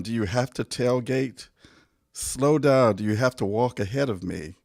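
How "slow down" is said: exasperated command. Acted. Nagging a reckless driver.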